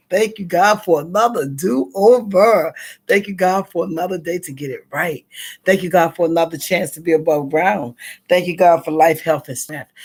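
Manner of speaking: grateful morning prayer; prayer of thanks. Real, not acted. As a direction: pray each line like a litany.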